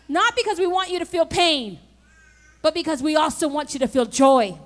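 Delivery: loud preaching with the toe example hammered home; full-force preaching. Acted. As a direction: drive the point like a pulpit climax.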